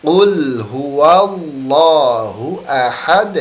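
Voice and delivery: 'Qul huwallahu ahad' very slow, drawn out, reciting; correct recitation. Shown as a demonstration. Teacher reciting the correct verse slowly for the class. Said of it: "Saya ulangi".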